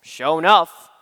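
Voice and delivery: "Sure enough" in a Southern drawl, said low; a lightly attempted Southern phrase; trying a Southern accent. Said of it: "so I just said".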